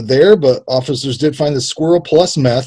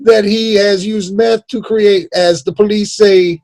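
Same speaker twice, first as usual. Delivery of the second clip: higher, grandstanding courtroom voice; mock lawyer; 4 semitones higher than usual. Imagined lawyer pleading to the court in a mock orator voice. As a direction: argue to the jury like a pompous lawyer. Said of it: "that's how his lawyer sounds".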